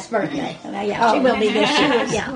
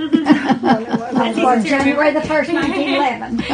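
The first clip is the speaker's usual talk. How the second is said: laughing; 3 semitones higher, 4 dB louder than usual. Real, not acted. Amused by her birth date.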